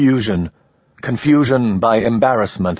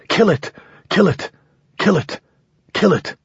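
high, frantic repeated shriek; a man begging someone to kill the snake; 10 semitones higher than usual. Acted. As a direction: scream it over and over in panic. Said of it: "The man was shrieking something".

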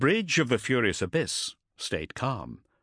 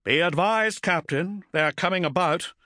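eerily calm; 8 semitones higher than usual. Acted. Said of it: "eerily calm".

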